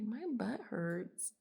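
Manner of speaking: deadpan butt hurts. Retold or imitated. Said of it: "I think it's funny 'cause I usually say glutes".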